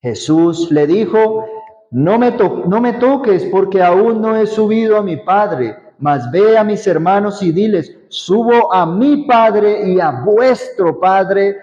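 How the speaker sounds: measured Bible reading voice; reading John aloud to the group; scripture reading. Acted. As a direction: read the passage to the congregation.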